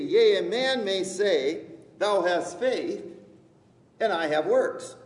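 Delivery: loud, measured Bible reading; scripture reading. Acted. Preacher reading a verse to the congregation, declaimed. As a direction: proclaim the verse to the room.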